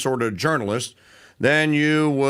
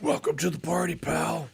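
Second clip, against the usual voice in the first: softer, understated movie catchphrase; Bruce Willis line; 2 semitones higher, 7 dB quieter than usual. Retold or imitated. Host quotes Willis greeting the cop, soft and dry. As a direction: drop it dry and cool. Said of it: "And Bruce Willis goes".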